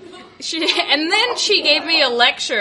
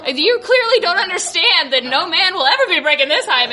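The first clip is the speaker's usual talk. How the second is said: laughing retort; 4 semitones higher, faster than usual. Retold or imitated. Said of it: "And I was like".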